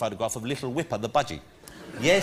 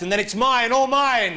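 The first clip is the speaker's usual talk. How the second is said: gloating villain, rising high and loud; sneering panto villain; 8 semitones higher, 5 dB louder than usual. Acted. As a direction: relish it like a pantomime baddie. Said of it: "It's meant to be, like, villainous".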